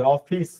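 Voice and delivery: অফিস ending in s with air escaping; English s. Shown as a demonstration. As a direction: let air hiss out on the final s of অফিস. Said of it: "স, বাতাস বেরোবে". (অফিস-এর শেষে বাতাস বেরোনো ইংরেজি 'স')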